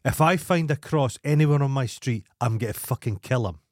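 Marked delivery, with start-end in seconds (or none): none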